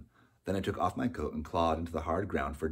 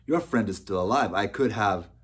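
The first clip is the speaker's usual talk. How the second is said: loud, higher angry protest; snarled; 4 semitones higher, 8 dB louder than usual. A narrator's reading. Oswald defending his bargain to the boy, snarling. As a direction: snarl back in self-defence. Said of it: "snarled Oswald".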